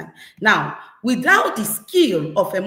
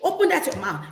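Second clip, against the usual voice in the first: mock scolding parent; 5 semitones higher, faster than usual. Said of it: "You start shouting".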